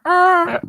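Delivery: high, loud cartoon "ah"; short put-on bleat; Carl-like "ah". Trying out a cartoon voice for a friend, high "ah". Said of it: "That sounds more like Carl".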